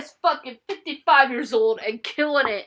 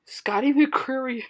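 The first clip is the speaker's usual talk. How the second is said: whisper. Real, not acted. Whispered aside.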